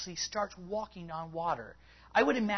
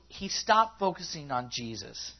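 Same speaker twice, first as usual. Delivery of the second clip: ordinary talk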